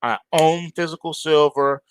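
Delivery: normal talking voice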